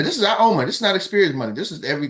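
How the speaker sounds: usual speaking voice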